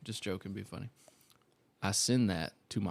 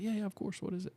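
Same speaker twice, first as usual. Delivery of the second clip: imitating the boss; 10 semitones higher, 8 dB quieter, faster than usual. Boss voiced in a retold story.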